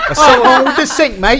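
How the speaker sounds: hammed-up Kiwi accent, loud and high; mock New Zealand husband, laughing; bad New Zealand accent. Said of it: "worst New Zealand accent I've ever heard".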